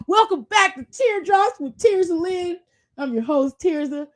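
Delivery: mock talk-show opener, lifted on the welcome; show host intro. Podcaster playing host of an imagined show, upbeat host intro. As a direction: kick off the show like a host after the countdown. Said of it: "And three, two, one".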